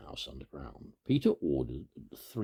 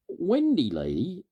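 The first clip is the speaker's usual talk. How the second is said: put-on excited lost boy; 13 semitones higher, 6 dB louder than usual. A narrator's reading. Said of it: "said Slightly".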